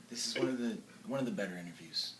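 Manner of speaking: hushed whisper to the audience; whispered aside. Acted. Host confiding about the interview in a whispered aside. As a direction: lean in and whisper it.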